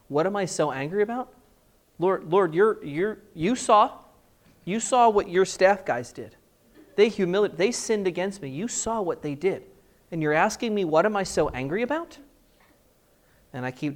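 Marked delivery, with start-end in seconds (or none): 0.1-1.3 incredulous rising retort; offended repeat of the question; indignant echo. Retold or imitated. 2.0-12.2 indignant rant to the Lord, a bit louder; a man venting at God in his car; heated complaint. Retold or imitated. Arguing angrily with the Lord.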